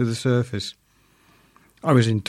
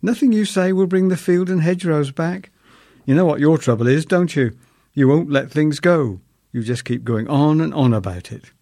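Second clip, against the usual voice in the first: scolding wife; 4 semitones higher, 4 dB louder than usual. Retold or imitated. Wife scolds nagging husband.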